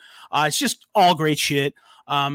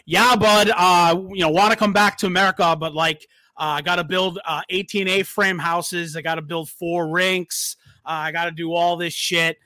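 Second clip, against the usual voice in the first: put-on light, half-hearted Canadian accent; a rough Canadian accent impression. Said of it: "That's not really, like, the best Canadian accent".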